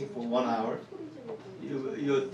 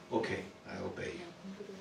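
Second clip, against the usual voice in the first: meek obedience; 3 semitones higher, 15 dB quieter than usual. Retold or imitated. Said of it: "I said".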